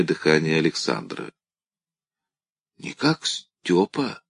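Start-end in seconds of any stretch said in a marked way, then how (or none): 2.8-4.2 weak papery rasp, slow; rustling dry voice. A narrator's reading. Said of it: "Голос у Бородулихи зашелестел, словно сухая бумага".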